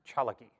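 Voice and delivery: "Chalagi" spoken carefully in Cherokee; Cherokee pronunciation. Shown as a demonstration. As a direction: say "Chalagi" as CHA-la-gi, the Cherokee name. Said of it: "that is pronounced".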